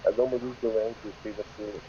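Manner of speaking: covered microphone sound; talking into a covered phone mic; muffled. Real, not acted. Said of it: "Your microphone's covered again".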